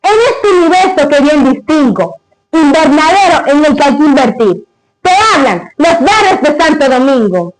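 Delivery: solemn recited verse; grand poetry declamation. Acted. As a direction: declaim it like a poem. Recites the father's poem.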